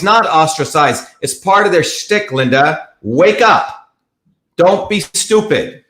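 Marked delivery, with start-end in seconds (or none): 3.0-5.8 blunt, higher-pitched scolding; harsh. Real, not acted. Host rebuking a misled viewer, harsh and insistent. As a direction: scold sharply, drawing out the rebuke. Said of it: "I'm sorry to be so harsh".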